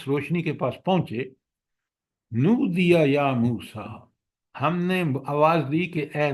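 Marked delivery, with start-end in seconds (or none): 2.3-4.1 slow, measured Arabic recitation; Quranic recitation. Shown as a demonstration. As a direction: recite the verse slowly. Reciting Quran verse in lesson. (آہستہ قرآنی تلاوت)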